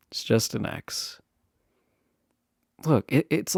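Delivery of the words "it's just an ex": soft unvoiced reassurance, sighing first; whisper. To the nervous guest about the ex, a hushed whisper. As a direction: breathe it out gently, almost no voice.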